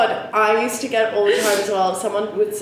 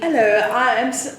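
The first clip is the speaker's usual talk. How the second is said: raised, louder attempt at Cockney; Cockney English accent; 4 semitones higher, 3 dB louder than usual. Shown as a demonstration. Attempting an English introduction, Cockney accent. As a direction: have a go at a rough Cockney accent. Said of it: "like, Cockney English accent".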